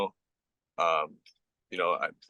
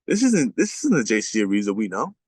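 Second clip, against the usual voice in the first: retold angry coach; 4 dB louder than usual. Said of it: "He's like".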